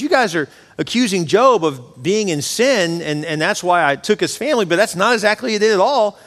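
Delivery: telling them off. Retold or imitated. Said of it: "He basically gets on him and says".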